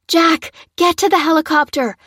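yelling over the helicopter noise; shouting orders. A narrator's reading.

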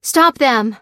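loud, high shouted order; calling out. A narrator's reading. Technician sprinting after the group, calling out. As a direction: shout for help to halt runaways. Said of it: "called the technician".

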